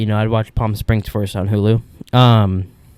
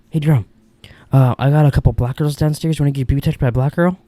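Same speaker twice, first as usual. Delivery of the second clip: lightly voiced roommate, a touch higher; doing the roommate waking him up, a bit higher; roommate impression; 3 semitones higher than usual. Roommate waking Jerome at night, lightly voiced and higher. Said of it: "here, I'll, I'll be him".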